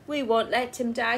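wife reassuring firmly. Acted. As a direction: set your jaw on it. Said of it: "said Missus Grinling firmly".

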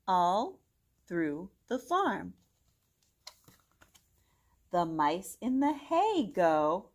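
bright, singsong storybook read; gentle storytime reading voice; reading to children. Acted. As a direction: read it aloud to little kids. Reads picture book to children.

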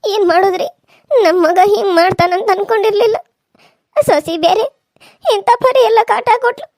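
loud, aggrieved lamenting; anguished lament. Acted. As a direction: pour out the hurt at full volume. Parent laments being thrown out. (ಜೋರಾಗಿ ನೋವು ತೋಡಿಕೊಳ್ಳುವ ಗೋಳು)

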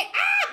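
very high laughing scream; laughing shriek. Retold or imitated. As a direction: shriek in mock terror. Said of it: "Todos gritamos". (grito agudísimo entre risas)

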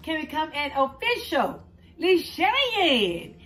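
loud, slow drawn-out call; hyped outro. Real, not acted. Urging viewers to share and subscribe, hyped up. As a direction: stretch each word like an announcer.

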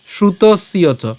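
"শ্রুতস্য চ" slow, with a dental s and y; pronunciation demo. Shown as a demonstration. Teacher showing the same rule, "শ্রুতস্য চ" as shrutos-yo cho. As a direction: hold the s in "শ্রুতস্য চ", then ya. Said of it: "দন্ত স".

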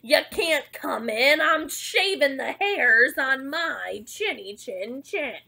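loud, slow storybook shout, easing off; loud pig's retort, hardest at the start; yelled back. Acted. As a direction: holler the wolf away, stretching the words. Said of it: "He yelled back".

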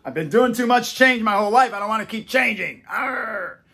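high-pitched mock grumble ending in a growl; complaining adult. Adults resisting change, mock complaining. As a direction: whine like a fed-up grown-up. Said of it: "adults, they don't like change. They're like".

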